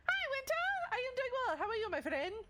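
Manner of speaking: very high, bright hello; cheerful greeting. Real, not acted. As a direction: squeal a welcome to a friend. Greeting a chatter.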